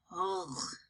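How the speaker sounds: short, quiet, disgusted ugh; little girl sputtering a soft ugh at the foul taste. Acted. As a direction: spit out a faint ugh of revulsion. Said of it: "she sputtered".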